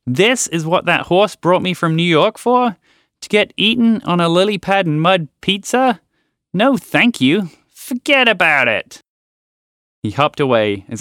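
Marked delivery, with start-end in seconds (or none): 0.0-9.0 angry frog. Acted. Frog rants angrily.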